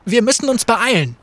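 calling out to Graves to hurry; urgent call. Acted. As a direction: hurry him up over the noise. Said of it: "rief Fate".

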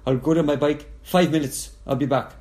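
bad Dutch accent, barely there; a faint attempt at a Dutch accent. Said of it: "that was not a good Dutch accent".

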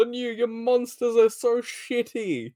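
villain scolds the monster maker, hammed-up yell; mock villain yell. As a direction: sneer at his shoddy monsters. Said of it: "yells at them all".

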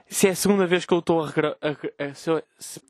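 words stalling on a choke; choking. Real, not acted. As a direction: choke mid-sentence, voice catching. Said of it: "Engasguei-me".

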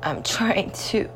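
worn-out murmur; quiet, drained. Real, not acted. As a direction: let the words sink almost away. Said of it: "And I'm crying".

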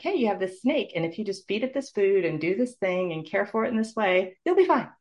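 lightly voiced breezy instructions, rising high at the end; sing-song as if handing over a pet; mock cheery doctor. Doctor breezily hands her a snake to keep, mock cheerful. Diagnosis told as snake care.

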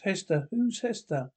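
mildly puzzled question; confused. Acted. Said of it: "Foster, confused".

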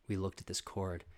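normal talking voice

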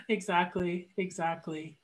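muffled from a swollen jaw; muffled speech. Real, not acted. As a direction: talk round a numb, swollen mouth. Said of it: "if I sound a little muffled".

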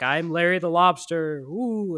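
mild mock-spooky introduction; hint of a goofy ghost; silly lobster ghost. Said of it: "he just says something really stupid like".

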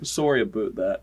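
put-on joking Canadian accent on an apology; Canadian "aboot" for "about"; mock Canadian. Dad apologizing for the murder, mock Canadian accent.

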